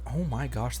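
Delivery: ordinary delivery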